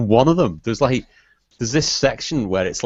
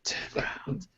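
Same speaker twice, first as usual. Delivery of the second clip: hushed suggestive whisper; creepy whisper; 8 dB quieter than usual. Pretend. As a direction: breathe the words like a creep. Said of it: "sounds like you're trying to".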